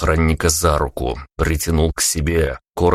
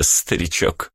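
mocking whisper; whispered taunt; slower than usual. A narrator's reading. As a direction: whisper старичок like a sly jab.

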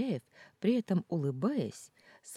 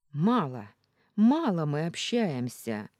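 louder, each word rapped out; clipped, emphatic; 7 dB louder than usual. A narrator's reading. Heroine corrects boyfriend, louder and clipped. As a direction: hammer out «мало» twice, loud and clipped. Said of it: "отчеканила".

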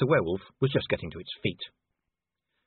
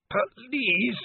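high, pleading cry for mercy; a wounded man begs his attacker to spare him; desperate plea; 10 semitones higher than usual. Acted. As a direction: beg for your life, voice jumping up. Wounded werewolf begging for mercy.

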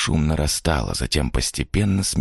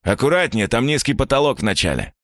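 character voice; 7 semitones higher than usual. Acted. Man warns about the ceiling.

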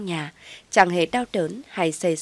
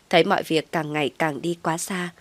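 ordinary delivery, nothing marked

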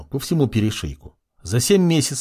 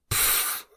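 sharp snort of laughter; 10 dB quieter than usual. A narrator's reading. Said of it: "резко выдохнула и засмеялась".

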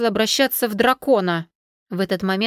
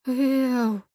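trembling voice; 3 semitones higher than usual. A narrator's reading. Girl calls cousin sensing watching eyes, trembling. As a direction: call his name, scared. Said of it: "дрожащим голосом".

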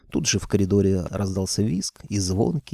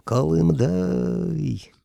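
long drawn-out call, pitch up; yelled; 8 semitones higher, much slower than usual. Acted. Tsar calling his colonel, a long yell. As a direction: shout the name up at the ceiling. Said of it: "задрал кверху голову и заорал".

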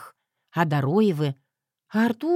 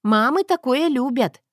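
higher, louder demanding voice; bossy Zoya; 6 semitones higher, 3 dB louder than usual. Acted. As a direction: order him around, spoiled. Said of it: "приказала бестия".

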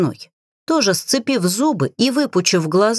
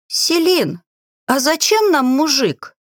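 higher voice with a touch of giggle; giggling, struggling to speak; 7 semitones higher than usual. A narrator's reading. Agi asks Selin about the man, giggling. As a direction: get it out through mild amusement. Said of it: "тоже хихикая, с трудом выговорила Аги".

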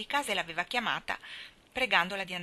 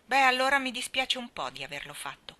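put-on grudging boy; 6 semitones higher, 4 dB louder than usual. A narrator's reading. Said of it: "concesse Davy".

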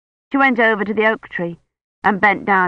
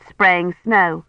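ordinary delivery, nothing marked

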